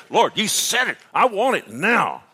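high, loud pleading with God; loud, high mock plea to the Lord; pleading prayer. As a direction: demand the promised sleep like a child. Retold demanding prayer at night.

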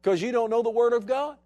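voice of God. Acted. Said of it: "God's going".

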